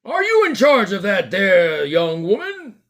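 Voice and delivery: note-taking bobby; policeman. Acted. Policeman interrogates.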